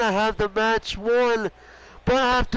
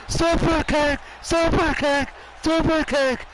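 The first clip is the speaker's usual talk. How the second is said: rising commentator hype, higher; excited call; 5 semitones higher than usual. Real, not acted. Commentator hyping a super kick to viewers, excited. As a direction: shout the move name with mounting thrill.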